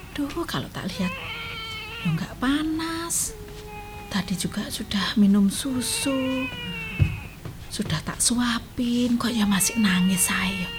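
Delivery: murmured worry. Acted. Grandma murmurs over crying baby.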